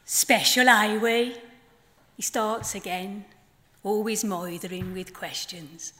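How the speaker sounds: measured poem delivery with long pauses; poem reading. Acted. Poet reading her flamingo poem to the festival audience, measured. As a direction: let each line land, unhurried.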